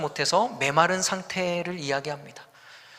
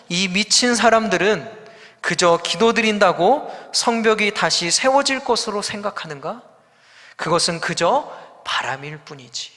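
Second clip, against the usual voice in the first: scornful taunt. Retold or imitated. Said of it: "어떤 학자는 이렇게 풀어서".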